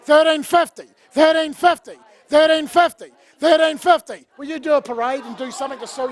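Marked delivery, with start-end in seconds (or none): 0.0-4.3 rapid auction chant, calling bids; auctioneer calling. Acted. Runs the charity auction.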